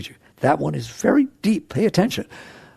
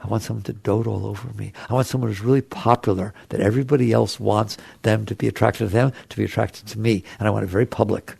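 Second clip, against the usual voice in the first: needy inner voice; 5 semitones lower, 3 dB quieter, faster than usual. Retold or imitated. Voicing a lonely person's wants.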